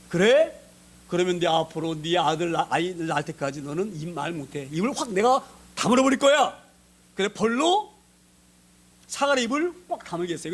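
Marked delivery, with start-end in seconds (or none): 0.1-6.7 stern angel retort. Retold or imitated. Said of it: "그러니까 천사장이".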